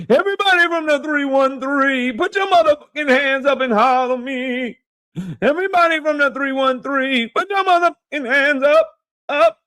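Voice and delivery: high, hyped-up crowd chant; rally the 313 like a hype man; pumped-up hype man shout; hype call-out. Acted.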